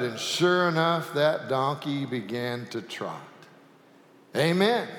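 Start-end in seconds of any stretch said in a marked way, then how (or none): 4.4-4.9 mild shout. Acted. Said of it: "shouted the man".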